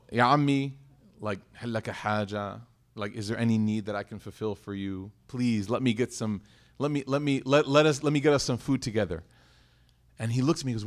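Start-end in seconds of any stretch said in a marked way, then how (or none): 0.1-9.2 polite offer. Retold or imitated. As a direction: ask humbly, as if not to embarrass him. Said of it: "I said it very politely".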